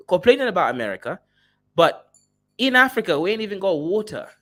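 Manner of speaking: loud, fast mock African accent; generic African accent. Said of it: "some generic African accent".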